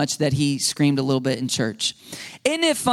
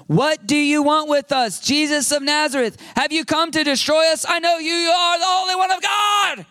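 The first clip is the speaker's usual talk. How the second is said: high, sustained shout as a possessed man; crying out as a demon; 9 semitones higher than usual. Acted. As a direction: cry out in demonic torment, pitched way up. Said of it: "cried out".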